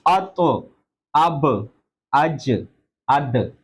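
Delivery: अतो, अब, अज, अद each ending in a small bounce; qalqala letters. Shown as a demonstration. Teacher drills the bouncing letters for students. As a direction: echo the final letter of अब, अज, अद. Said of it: "ये कलकला है".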